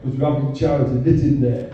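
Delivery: a hint of a broad cartoon Yorkshire radio advert, half laughing; mock radio advert in a cartoon Yorkshire voice. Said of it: "that cartoon Yorkshire voice filled the air".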